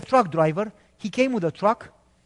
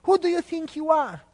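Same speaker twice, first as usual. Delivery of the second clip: angry boss; 8 semitones higher than usual. Retold or imitated. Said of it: "He got so angry".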